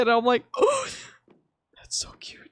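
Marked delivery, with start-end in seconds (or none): 0.6-0.9 high, melting little coo; re-enacted swooning reaction; touched coo. Moved by man with kitten. 1.8-2.4 hushed, whispered swoon; tiny awestruck whisper; adoring whisper. Retold or imitated. Moved by man with kitten.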